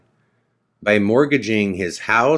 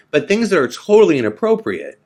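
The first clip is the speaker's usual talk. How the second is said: exasperated; 9 semitones higher, 5 dB louder, faster than usual. Real, not acted. Indignant telling.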